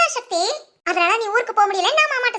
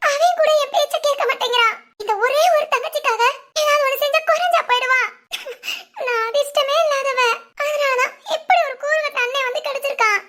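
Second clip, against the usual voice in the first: slightly raised whine, breaking into laugh-sobs; mock-tearful complaint; 3 semitones higher than usual. Sister complains about her useless brother, hammed-up tearful whine. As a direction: bewail your luck, only half crying. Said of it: "சிரிச்சுக்கிட்டே கண்ணீர் விடுற".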